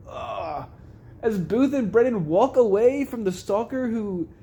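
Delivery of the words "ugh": drawn-out mock groan of pain; imitated groan. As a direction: groan like a wounded man in the background. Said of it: "you hear him just in the back go".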